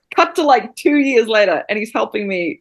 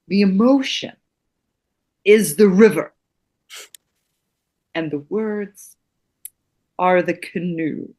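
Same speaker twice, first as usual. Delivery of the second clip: slow, portentous mentor intoning a maxim; lightly voiced wise acting coach, drawn out; solemn teacher; slower than usual. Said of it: "he'd look at me and he'd say".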